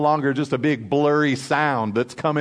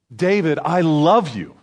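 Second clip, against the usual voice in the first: mildly raised voice of God; громкий голос Бога; 2 semitones higher than usual. Acted. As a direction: proclaim it openly, as God to David. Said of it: "not the loud voice of God".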